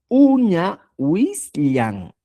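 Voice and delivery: "uña huislian" slowly, in separated syllables. Shown as a demonstration. Teacher showing the possessive form, syllable by syllable. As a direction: draw out each part of "uña huislian". Teacher spells out new word.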